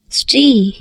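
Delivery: whispered name. Real, not acted. Late-night voice message to Sri.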